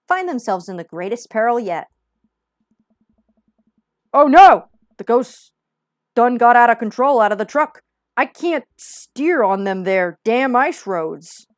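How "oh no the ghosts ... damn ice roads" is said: panicked yelling. Acted. Panicked trucker in TV show.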